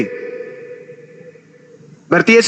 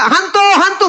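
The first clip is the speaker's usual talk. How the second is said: higher-pitched playacted alarm; lightly hammed-up panic; mock frightened cry; 5 semitones higher than usual. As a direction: call it out like a startled disciple. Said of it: "mereka teriak-teriak".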